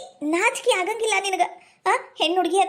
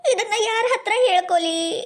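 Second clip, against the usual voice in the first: acted crying; slower than usual. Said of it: "ಸುಮ್ನೆ ಕಣ್ಣೀರ್ ಹಾಕೋತ ಕುಂತ್ರ".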